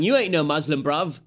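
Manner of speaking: loud mock British street accent, fairly high; a mild hammed-up British accent yell; British accent shout. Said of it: "with the British accent".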